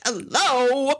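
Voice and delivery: put-on peeved "hello"; annoyed. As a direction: imitate someone irritated calling out. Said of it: "now she just sounds annoyed".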